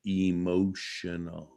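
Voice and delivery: low, slow, hushed Emotional; Emotional. said slowly and deep, a teasing reveal; dramatic emphasis. Shown as a demonstration. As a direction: draw out Emotional. low and soft for effect. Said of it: "I said it".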